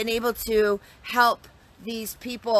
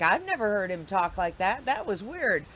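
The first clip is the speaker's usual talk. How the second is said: baffled farmer. Retold or imitated. Voices the other baffled farmer replying.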